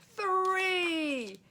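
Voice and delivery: high, loud call; shouted signal to jump; shouted count. A narrator's reading. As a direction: yell the jump cue. Jumping count in the chase.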